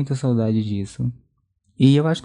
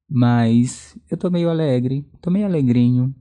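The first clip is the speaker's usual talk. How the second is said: tipsy, slow and loose; a little buzzed on wine; slower than usual. Real, not acted. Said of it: "eu já estou meio alterado".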